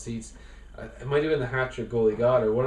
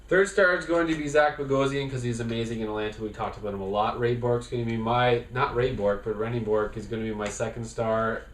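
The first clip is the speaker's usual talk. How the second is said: all in one breath. Shown as a demonstration. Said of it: "In one breath".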